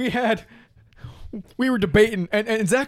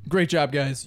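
low, deflated congratulations; mock sad; 6 semitones lower, slower than usual. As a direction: imitate a losing team's downcast praise. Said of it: "the other team's just sad".

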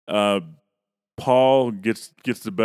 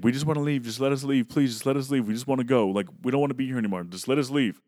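pleading wife; 4 semitones higher than usual. Retold or imitated. Kim voiced pleading repeatedly.

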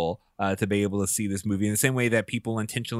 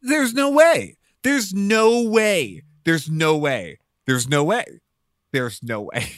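disbelief; 4 semitones higher, 5 dB louder, slower than usual. Retold or imitated. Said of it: "And I remember thinking".

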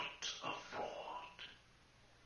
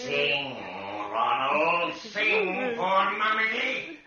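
loud, higher sing-song with a laugh; mocking sing-song; 9 semitones higher, 11 dB louder, slower than usual. Ghost as Mummy ordering Ronald to sing, laughing. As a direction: chant it at him, laughing.

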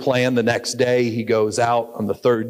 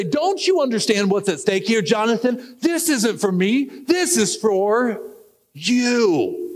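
manipulative father; 9 semitones higher than usual. Acted. Saul manipulating Jonathan.

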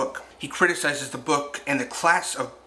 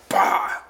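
imitated lion roar; 6 semitones higher, 4 dB louder than usual. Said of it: "came at him like a lion".

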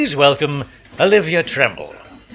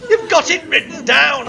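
exasperated shout; 9 semitones higher than usual. Acted. Exasperated host snaps.

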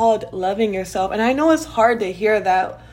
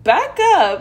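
mock telling-off; 5 semitones higher, 5 dB louder, slower than usual.

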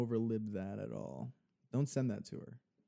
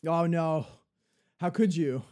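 mock Scottish; 5 semitones higher, 7 dB louder than usual. Joining the mock Scottish scene.

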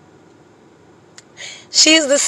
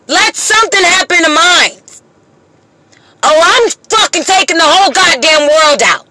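raised and higher, hard-hitting rant; real fury; 3 semitones higher than usual. Real, not acted. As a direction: let the anger boil over at them. Mother's angry rant at the world.

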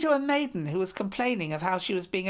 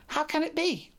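much higher, incredulous question; astonished; 8 semitones higher than usual. Acted. King amazed at captive Taulat's arrival, astonished and high. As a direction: disbelief breaking into the voice. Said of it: "said the king in surprise".

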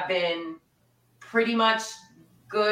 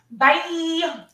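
dismissive bye; 9 semitones higher, 4 dB louder than usual. Real, not acted. Waving off lost friends.

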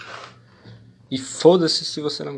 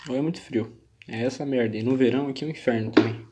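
talking with a runny nose; sniffly, nose running from the cold. Real, not acted. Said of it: "Tô com o nariz correndo". (com o nariz escorrendo)

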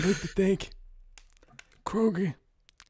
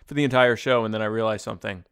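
low strained Brando impression; 5 semitones lower, 4 dB louder, faster than usual. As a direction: push it low from the throat. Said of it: "It hurts doing that voice".

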